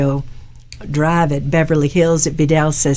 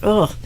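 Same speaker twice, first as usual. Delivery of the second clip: disgusted ugh; 2 semitones higher than usual. Retold or imitated. Voices her old disgusted reaction.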